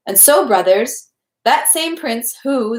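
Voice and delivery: leaning hard on the word who, slowed; emphasis on who. A narrator's reading. Storyteller in the shed stressing "who". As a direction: draw out "who" with weight. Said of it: "with special emphasis on the word who".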